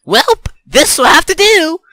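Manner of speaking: high, loud battle-ready call; resolute exclamation. A narrator's reading. Hero readies makeshift weapon, acted.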